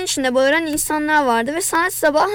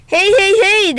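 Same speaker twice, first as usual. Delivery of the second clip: higher, louder call to break it up; calling out to stop; 5 semitones higher, 6 dB louder, slower than usual. A narrator's reading. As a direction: cut in loudly to stop the fight. Mr Charles breaks up fight. (kavgayı kesmek için yüksek sesle seslenerek)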